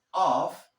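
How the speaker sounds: off ending in a clear unvoiced F; loud isolated off with a crisp "f"; double F sound. Shown as a demonstration. Teacher explaining double F, off ending on hard f. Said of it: "Porque tiene doble F".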